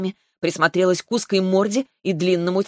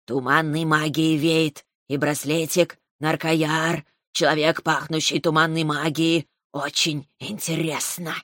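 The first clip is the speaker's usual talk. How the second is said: slow hypnotic serpent hiss. Acted. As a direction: muse it slowly like a snake. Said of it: "заключила змея".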